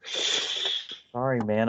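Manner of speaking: breathy mock whisper; hushed, unvoiced apology; whispered refusal. Voicing the girl refusing.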